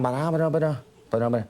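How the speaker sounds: Dublin rhythm in nonsense syllables; monotone Dublin accent. Shown as a demonstration. Showing how the accent sounds, monotone Dublin babble. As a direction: murmur the tune of Dublin Irish. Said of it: "It's a very monotone".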